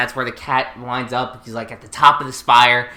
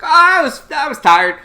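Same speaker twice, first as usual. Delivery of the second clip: higher mock Lelouch; 8 semitones higher, 5 dB louder, faster than usual. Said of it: "He was like".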